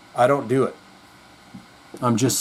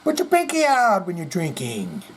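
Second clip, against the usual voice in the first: slow, much higher scolding parent voice; mock a prim parent scolding bad manners; imitating stern parents; 7 semitones higher, slower than usual. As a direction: parents scolding a child about the pinky. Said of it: "parents that said".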